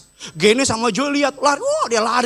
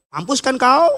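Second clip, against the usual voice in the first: lightly put-on Batak accent, rising at the end; mock Batak scolding with a lifted final word; Batak parent; 4 semitones higher, 3 dB louder than usual. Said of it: "Kalau orang tua Batak gitu".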